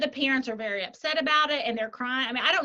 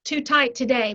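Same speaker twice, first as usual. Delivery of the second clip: incredulous boss; 4 semitones higher, slower than usual. Retold or imitated. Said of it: "Because it's like".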